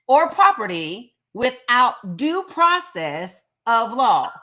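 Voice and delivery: slow, deliberate reading, every word weighed. Shown as a demonstration. Reading the Constitution slowly to fact-averse commenters. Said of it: "gonna say it slow".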